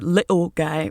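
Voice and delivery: a hint of a UK accent on "little guy"; understated British "little guy"; light British accent. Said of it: "Of course, in his accent".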